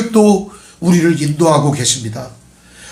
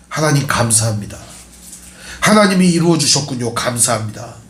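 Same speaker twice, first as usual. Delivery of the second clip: humble prayer; 5 semitones lower than usual. Retold or imitated. Servant prays bowing down.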